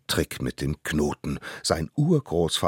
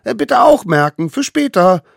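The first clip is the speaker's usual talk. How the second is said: high, eager little voice; tiny eager hunter; 11 dB louder than usual. Acted. Little hunter brings food to the mammoth, high and eager. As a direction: play the smallest one, proud and keen. Allerkleinste asks again.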